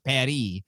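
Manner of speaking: PARIS as pah-REE; affected French pronunciation. Retold or imitated. Scolding people who Frenchify, saying PARIS as pah-REE. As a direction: drop the s, stress the end of PARIS. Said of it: "then you say, like".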